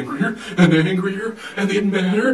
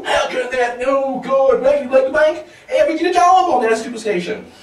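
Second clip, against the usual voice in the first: angry screaming; 4 semitones higher than usual. Acted. Viewer screaming at the person on TV, mock outrage. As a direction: yell indignantly at whoever is on screen. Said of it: "you scream at the person".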